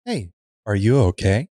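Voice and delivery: sweet cooing. Acted. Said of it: "P C cooed sweetly".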